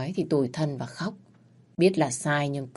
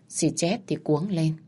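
ordinary delivery

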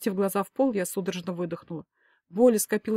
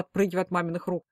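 ordinary delivery

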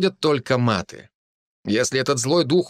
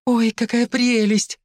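high, slow, gushing delight; delighted exclamation; 12 semitones higher, slower than usual. A narrator's reading. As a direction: coo over something adorable. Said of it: "воскликнула Ульяна".

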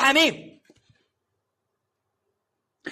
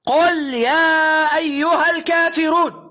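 slow emphatic call; slower than usual. Shown as a demonstration. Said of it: "لم يقل لك".

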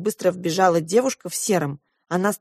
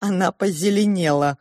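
plain reading voice

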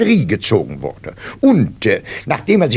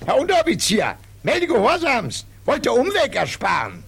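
dutiful recruit; 9 semitones higher, 4 dB quieter than usual. Acted. Recruit answers the sergeant.

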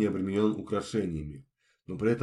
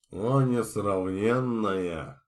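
awestruck; 4 dB louder, much slower than usual. Acted. Drunk knight awed by his lady.

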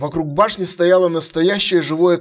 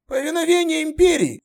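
much higher, strained veteran soldier voice; gruff centurion; 14 semitones higher than usual. Acted. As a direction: bark it like a battle-worn centurion.

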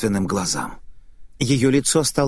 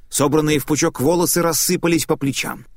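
usual speaking voice

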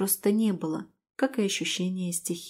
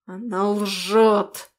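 slow, louder roaring growl; huge fiery dragon roar; 4 dB louder, much slower than usual. Acted. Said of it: "взревел дракон".

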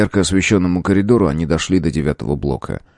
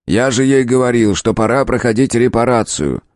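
a touch of raised exclaiming; 5 semitones higher than usual. Acted. Professor exclaims about Leblanc's neglect, mildly heated. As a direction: protest with some heat. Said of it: "воскликнул Покровский".

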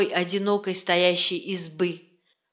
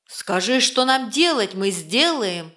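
angry roar. Acted. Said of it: "проревел рассерженный лось".

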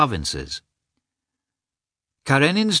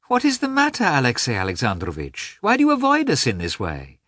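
smiling question; 4 semitones higher than usual. Acted. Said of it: "Dolly smilingly asked".

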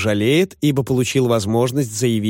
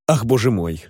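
ordinary delivery, nothing marked

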